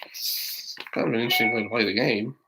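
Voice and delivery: soft unvoiced comment; whispered aside. Real, not acted. Reader whispering an aside to the kids. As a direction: whisper it to the listener.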